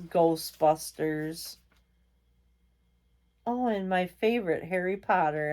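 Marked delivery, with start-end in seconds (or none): 3.4-5.5 mock-enthusiastic, with a quick start; sarcastic. Real, not acted. Vlogger listing films names one she dislikes, sarcastic. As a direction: feign delight at a supposed favorite. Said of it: "I say that in sarcastic way".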